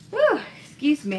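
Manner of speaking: holding back a sneeze; breathy catch before a sneeze; about to sneeze. Real, not acted. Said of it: "I have to sneeze".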